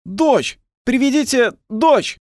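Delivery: высокий протяжный выкрик; требуй звенящим высоким криком; звенящий крик. A narrator's reading. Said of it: "звенел голос". (звенящий голос)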